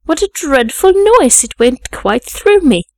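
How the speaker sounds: high, loud outcry, drawn out at the end; stretched-out, indignant exclaiming; shocked exclamation. A narrator's reading. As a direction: exclaim with appalled emphasis. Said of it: "exclaimed Abbott".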